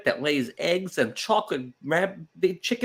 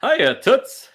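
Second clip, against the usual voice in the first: higher, louder brassy dame greeting; gangster's moll; 9 semitones higher, 7 dB louder than usual. Pretend. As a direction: sell it like a wisecracking dame. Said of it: "Come on, you could do better".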